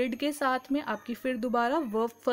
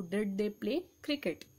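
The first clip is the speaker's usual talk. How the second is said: very slow, softer English sentence; slow dictation; 4 semitones lower, 6 dB quieter, much slower than usual. Shown as a demonstration. Teacher dictating the English answer, very slow. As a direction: spell it out word by word for the class.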